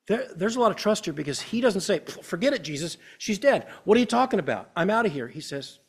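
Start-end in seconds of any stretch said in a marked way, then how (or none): 2.0-5.3 higher-pitched scoffing brush-off; dismissive. Acted. Father refusing to believe Jesus can help, dismissive. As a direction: wave it off in mock exasperation.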